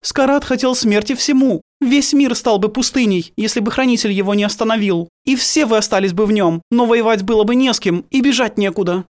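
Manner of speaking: high, forceful female ruler; stern priestess voice. A narrator's reading. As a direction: speak with unyielding authority. Geneva continues in force.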